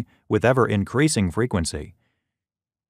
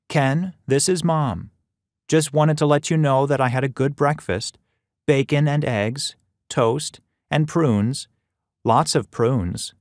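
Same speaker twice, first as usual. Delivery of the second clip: put-on elderly mother; 4 semitones higher than usual. Mom's voicemail message to her son.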